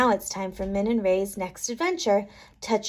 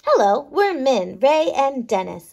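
lightly voiced little microbes, curious; small bugs chatting in a mouth; microbe characters; 3 semitones higher, 5 dB louder than usual. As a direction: play the tiny cavity-diggers with cheeky glee. Microbes greet.

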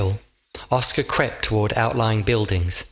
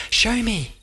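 higher voice for the derby; eager, high companion; 12 semitones higher than usual. A narrator's reading. The derby shows Oscar the port in a high voice.

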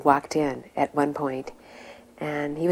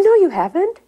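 high, loud imitation of a rebuke; retold stern contradiction; 13 semitones higher, 7 dB louder than usual. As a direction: contradict him forcefully, as the guru. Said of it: "getting heavier and heavier with him".

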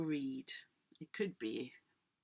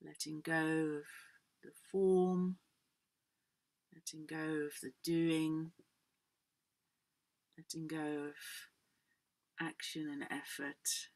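guided relaxation. Acted. Yoga teacher guiding the class into letting go, guided relaxation.

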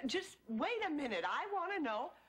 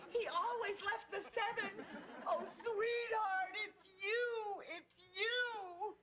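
tearful; 5 semitones higher, slower than usual. Real, not acted. Widow hears dead husband.

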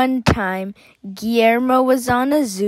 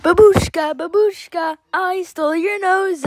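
creepy man voice; 8 semitones higher than usual. Retold or imitated. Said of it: "started going".

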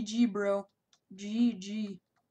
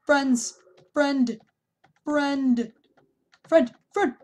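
loud begging of friend; louder and louder pleading; 3 semitones higher, 6 dB louder, much slower than usual. Real, not acted. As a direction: shout friend over and over to stop him. Begging the attacker to spare him.

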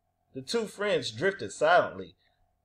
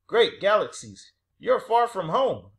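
higher, louder cheery alien; cheery cry; 5 semitones higher, 5 dB louder than usual. A narrator's reading. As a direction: exclaim in cheerful astonishment. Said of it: "a cheery creature cried".

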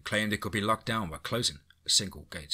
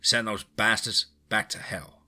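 rallying speech; 8 dB louder than usual. A narrator's reading. Rancher rallying the town.

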